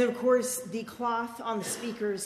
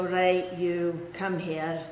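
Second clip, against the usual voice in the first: Scottish mum; 3 semitones lower, much slower than usual. Retold or imitated. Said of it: "she had a really thick Scottish accent".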